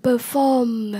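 "Perform" stressed on FORM; light per, weighted FORM in "Perform"; stress on second syllable. Shown as a demonstration. Teacher modelling vocabulary for learners, "Perform" stressed on FORM. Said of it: "nhấn âm hai".

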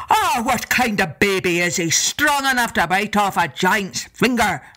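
a hint of a lumbering giant; giant's voice. Giant wails after bite.

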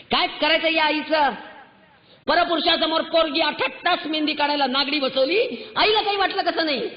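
exasperated public scolding; rising outcry. Real, not acted. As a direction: pitch up, pleading and indignant. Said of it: "म्हणून ओरडते".

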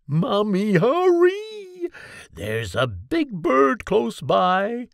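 put-on child's urgent high call for mom. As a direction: shout up to mommy, scared and hurried. Child calls mother about bird.

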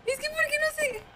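high, panicked whine; about to cry from fear; near tears. Real, not acted. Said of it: "voy a llorar".

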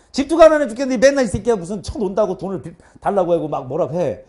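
half-playful retold telling-off; imitated mother's scolding. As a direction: nag like a fed-up mother. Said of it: "우리 엄마가 뭐라고 했냐면". (엄마 잔소리 흉내 내듯 야단치며)

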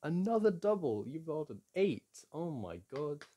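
high, loud disbelieving cheer; can't believe the luck; amazed excitement. Real, not acted. Reacting to another lucky double roll, amazed.

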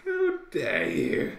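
slow, loud, hammed-up posh English protest. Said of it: "he says very poshly".

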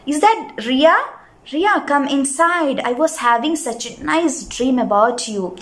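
a hint of sleepiness in the words; sleepy voice. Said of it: "she said in a sleepy voice".

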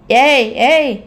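loud, high hey hey; shouting after her. A narrator's reading. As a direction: yell at her to stop as you chase. Rowdy chasing her.

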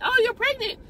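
high-pitched retold surprise; surprised discovery. Retells breaking news to patient.

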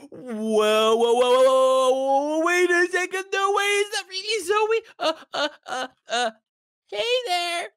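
gasping, stretched-out starstruck whoas; stammer, flustered at seeing a crush; fanboying. Real, not acted. Boy spotting his crush Zoe on the server, flustered fanboying. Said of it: "how much he was fanboying".

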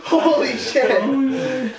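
laughing slowly through burning; drawn-out laugh in pain. Real, not acted.

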